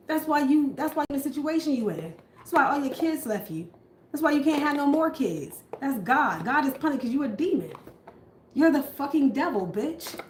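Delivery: enraged abuser yelling at his partner; abusive partner ranting. Acted. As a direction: tear into her, rising to a shout.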